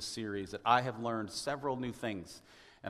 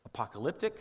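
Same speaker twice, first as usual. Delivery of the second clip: usual speaking voice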